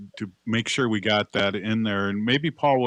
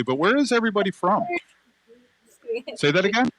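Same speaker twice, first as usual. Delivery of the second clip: calling out; 13 semitones higher, 4 dB louder than usual. Real, not acted. Host calls out to camp crowd.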